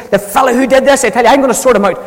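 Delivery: retelling the king losing his temper; angry outburst. Retold or imitated. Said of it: "David burned with anger against the man".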